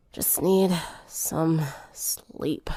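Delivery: drowsy, slow whisper; sleepy whisper. Acted. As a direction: fade into sleep, barely voiced. Sick girl falling asleep.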